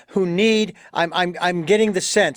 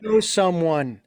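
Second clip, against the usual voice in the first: genuine. Real, not acted. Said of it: "No, this is genuine".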